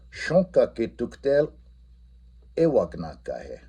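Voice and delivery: teacher repeating the Lakota question slowly. Shown as a demonstration. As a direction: lift "tuktel" on a slow question. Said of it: "our question ending".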